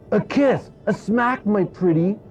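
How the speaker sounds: high, loud coaxing squawk; Punch puppet voice. Acted. Punch begging Judy for a kiss, high and loud. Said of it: "Punch says".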